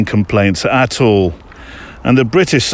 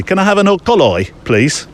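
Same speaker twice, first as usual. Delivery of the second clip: put-on Brummie accent; 8 semitones higher than usual. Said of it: "I sound like a Brummie ordering".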